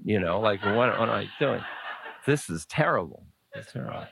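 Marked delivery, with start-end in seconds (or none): 0.6-3.3 mock complaint. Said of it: "most of us would say". 3.5-4.1 whispered mock complaint. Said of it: "most of us would say".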